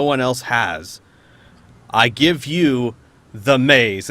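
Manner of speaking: lightly voiced arena ruler, punching the openings; beholder addressing the arena. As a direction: proclaim to the crowd with measured pauses. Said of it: "calls for quiet, and then says".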